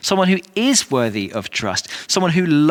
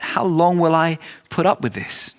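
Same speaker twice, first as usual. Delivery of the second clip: higher-pitched, exasperated plea; worn out and at the end of patience; weary exasperation; 4 semitones higher than usual. Retold or imitated. Jesus to the unbelieving generation, exasperated and exhausted. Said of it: "he's just exasperated. He's just exhausted".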